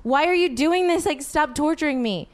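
high, exasperated yell; retold yelling. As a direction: yell at a boyfriend to leave you alone. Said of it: "I'm really sorry I yelled at you".

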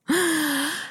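high-pitched little laugh. Real, not acted. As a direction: let out a high laugh after your own joke. Jokes, then laughs at it.

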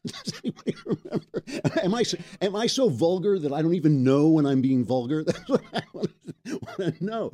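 laughing through the words; amused, laughing question. Real, not acted. Laughing at vulgar complaint.

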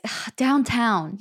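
slow, half-awake groan of a word; sleepy mumble. Retold or imitated. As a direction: drag it out like just woken. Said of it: "And he was like".

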